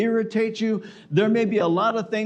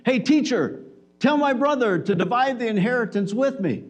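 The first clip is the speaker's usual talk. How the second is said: man in crowd calling out; 4 semitones higher than usual. Retold or imitated. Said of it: "someone in the crowd yelled out".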